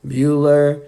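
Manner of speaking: slow, droning teacher calling a name; lightly mimicked deadpan drone; monotone roll-call teacher. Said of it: "kinda like the guy that says Bueller".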